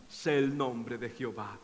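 low, hushed and reverent; humble vow. Retold or imitated. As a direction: speak it from the dust, softly. Job's humble vow of faith.

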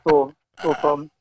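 normal talking voice

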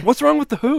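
high, laughing mock of a colleague; imitating Felix. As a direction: play Felix, amused and incredulous. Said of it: "Felix is over here like".

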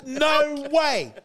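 high-pitched, challenging London street accent; hammed-up Top Boy accent, drawn out in disbelief; rugged London accent. Shown as a demonstration. Comedian showing off his best accent, outraged London roadman. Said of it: "It's just a bit rugged".

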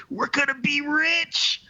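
high, drawn-out cry of glee; gleeful exclamation. Acted. Surrounded Irishman turns to his friend, gleefully excited. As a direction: crow it slowly, way up high.

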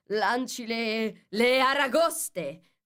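slow, high, drawn-out yell; Gryphon yelling. A narrator's reading. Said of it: "urlò il grifone". (urlo acuto e strascicato)

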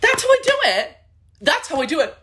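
high, loud put-on old lady voice; grandma impression. Doing grandma Josephine for Snatch Game. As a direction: brag it like a proud Italian grandma. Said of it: "my grandma Josephine".

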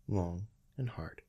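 usual speaking voice

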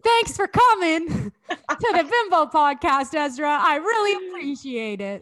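slow, laughing host outro; giggly podcast goodbye; laughing sign-off. Real, not acted. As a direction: laugh through an awkward goodbye. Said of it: "All my goodbyes are so awkward".

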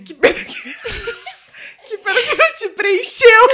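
high, loud, giggling through the landlord's words; quote broken by laughter. Retold or imitated. Quoting the building manager, she breaks down laughing mid-line. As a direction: try to quote him but keep cracking up. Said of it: "Ele falou assim".

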